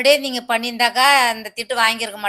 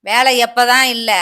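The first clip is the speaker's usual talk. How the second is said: angry scolding; 6 dB louder, slower than usual. Acted. Wife scolding husband.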